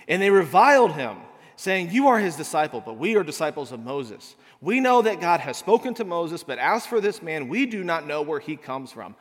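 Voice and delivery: measured, solemn Bible reading; scripture reading. Acted. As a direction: read the passage aloud to the congregation.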